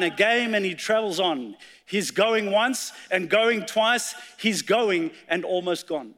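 measured, dramatic poem reading; poem recitation. Acted. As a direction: recite it like a storyteller at the pulpit. Recites poem The Old Violin.

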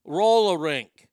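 emphatic demo of a Boston accent. Shown as a demonstration. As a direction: draw out "Roll a rink" Boston-style, second R dropped. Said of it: "they drop the second R".

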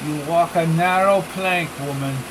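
lightly voiced Spanish-accented thug; a hint of a Spanish accent, curt; small man with a Spanish accent giving orders. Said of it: "His thick Spanish accent".

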